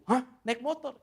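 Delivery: mock astonishment, voice jumping up; acted surprise. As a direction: play a host taken aback. Homeowner reacts to motorbike answer.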